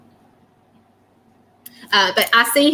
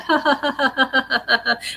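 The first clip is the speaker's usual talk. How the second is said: short imitated laugh; 4 semitones higher than usual. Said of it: "And then he laughs".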